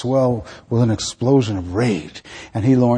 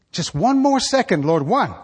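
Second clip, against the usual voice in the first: begging; 8 semitones higher than usual. Acted. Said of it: "as I begged".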